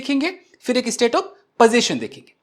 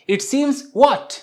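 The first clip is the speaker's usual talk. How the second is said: slow question; 5 semitones higher, much slower than usual. Shown as a demonstration. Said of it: "सवाल पूछिए".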